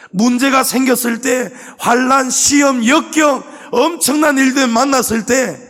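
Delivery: 힘차게 외치는 설교; fiery preaching. Acted. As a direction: hammer each trial word home. Preaching at full force.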